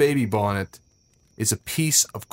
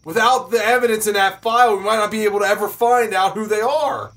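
raised, impassioned protest; angry insistence; 7 semitones higher, 4 dB louder than usual. Acted. Storyteller rails at friends over lost evidence, angry. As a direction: press how much has been lost.

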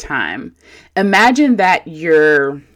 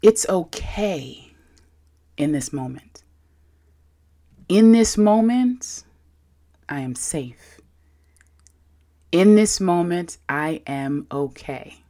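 gentle and warm. Shown as a demonstration. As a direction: reassure yourself kindly. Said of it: "nicely and gently and warm".

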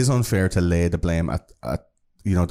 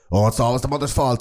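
mocking voice; 4 semitones higher than usual. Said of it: "a lot of people like to look at".

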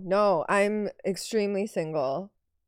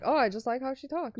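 fan quote; 4 semitones higher than usual. Retold or imitated. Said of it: "and then they're like".

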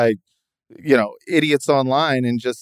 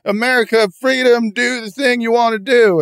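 mocking libertarian; 6 semitones higher than usual. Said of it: "These guys are just like".

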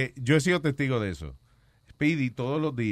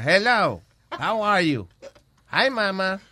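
mock flirty greeting; 5 semitones higher, much slower than usual. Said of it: "Y viene la otra".

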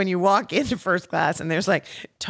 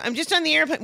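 much higher, breezy and innocent; innocent mock voice; 10 semitones higher, faster than usual. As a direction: play it perfectly innocent. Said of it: "I go".

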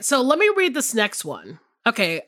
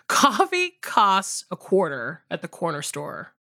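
careful, lower take with a touch of high English; lightly posh English-sounding accent; 6 semitones lower than usual. Shown as a demonstration. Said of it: "you sound like high English, like The Crown".

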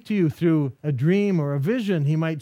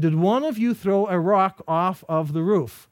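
slowed, each word weighed; slow deliberate question. Retold or imitated. Father patiently asking his sons again, slow and deliberate. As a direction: ask it slowly so they know it matters. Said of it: "I've taught my boys to tell the truth".

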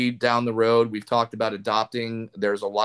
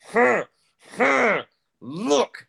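high, loud mock-offended reaction; imitating unamused audience; 13 semitones higher, 4 dB louder, much slower than usual. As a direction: squeal it as the audience not laughing. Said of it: "They're just like".

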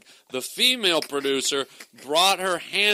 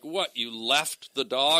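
slow, drawn-out mock disbelief; retold disbelief; 2 semitones lower, slower than usual. Comic imitating the producer who keeps picking it up, slow disbelief. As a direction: stretch it into an incredulous question. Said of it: "she kept picking it up".

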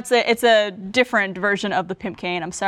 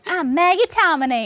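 put-on light Southern country accent; 8 semitones higher, 4 dB louder than usual. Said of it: "your little, uh, country accent".

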